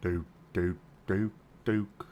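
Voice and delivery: chirpy ferret chatter. Pretend. Mimicking ferret dooking noises.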